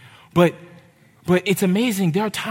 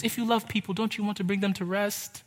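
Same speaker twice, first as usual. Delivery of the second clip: much softer, gentle plea; tender appeal; 2 semitones higher, 7 dB quieter than usual. Real, not acted. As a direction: coax them softly toward rest.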